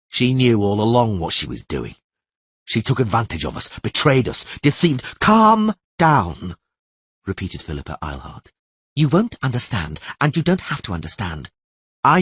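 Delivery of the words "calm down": urgent command. Acted. Philippa urges Geralt.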